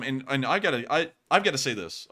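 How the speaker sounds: tripping over the words; stuttering. Real, not acted. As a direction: restart the phrase as the words stumble. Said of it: "I'm stuttering over my words".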